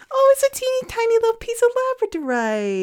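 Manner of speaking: delighted squeal. Real, not acted. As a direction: gush over the tiny stone. Delighted by the gift.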